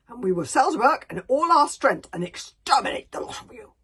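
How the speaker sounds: loud, blustering warrior chief; Bertha's letter. Acted. Chief of the bog burglars writing to Stoic, loud and mocking. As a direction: bellow the threats like a fearsome chief. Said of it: "Bertha's letter read aloud".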